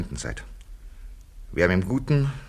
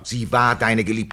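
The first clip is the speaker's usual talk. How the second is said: louder, slow, each word hammered; forceful accusation; 3 semitones higher, 7 dB louder, slower than usual. Acted. Bill forcefully repeats the accusation to Frank, slow and loud. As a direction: drive the accusation home slowly.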